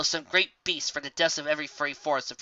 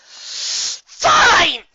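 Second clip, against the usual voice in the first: high, loud, giving in with a huff; exasperated fine; 13 dB louder than usual. Acted. Raindrops giving in to Carrot Top, exasperated. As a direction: snap it out in exasperation. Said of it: "with an exasperated sigh".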